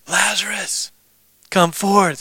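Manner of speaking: mock yell. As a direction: call it out high, as if to someone hard of hearing. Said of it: "He yells it".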